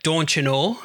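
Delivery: light mock Wisconsin accent, rising end. Co-host imitates what they all say, mock Wisconsin accent. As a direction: imitate the Upper Midwest accent with a lift at the end. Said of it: "they're all like".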